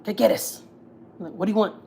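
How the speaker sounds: mildly snappy mock greeting; attitude. Mom answers her estranged son's call, with attitude. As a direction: imitate answering the phone with attitude. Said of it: "answered her with an attitude".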